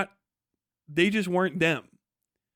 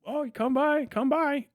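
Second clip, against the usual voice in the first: mocking big talk; 4 semitones higher, slower than usual. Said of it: "you can talk big".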